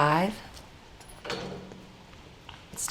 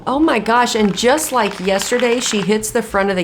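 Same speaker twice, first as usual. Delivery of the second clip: excited; 5 semitones higher, 4 dB louder than usual. Real, not acted. Live call of a near birdie.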